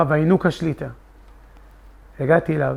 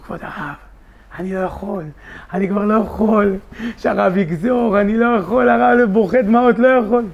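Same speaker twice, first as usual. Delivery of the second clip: desperate pleading; 4 semitones higher than usual. Retold or imitated. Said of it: "כולי בוכה, כולי נסער".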